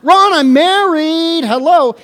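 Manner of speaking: amused mock protest to the crowd; laughing retort.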